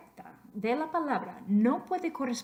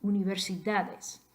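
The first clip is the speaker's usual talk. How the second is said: universidades with the stress on "da"; penultimate stress. Shown as a demonstration. Teacher checks the voice stress, universidades stressed on "da". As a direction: lean on the "da" in universidades. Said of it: "estrés de la voz aquí".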